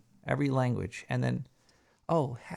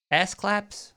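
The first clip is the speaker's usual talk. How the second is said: higher, louder incredulous "Ass claps?"; mock shocked question; 6 semitones higher, 5 dB louder than usual. Joking about school clapping, mock shocked. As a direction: pop it out in mock disbelief.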